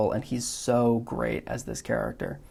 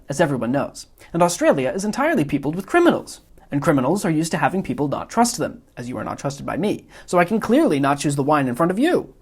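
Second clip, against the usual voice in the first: louder, higher, rapid self-pleased reasoning; Wallace Shawn's Vizzini; 4 semitones higher, 4 dB louder than usual. Acted. Vizzini lecturing the Man in Black on the poison, loud and smug. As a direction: build the logic faster like a gloating genius. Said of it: "mimicking Wallace Shawn's inflection".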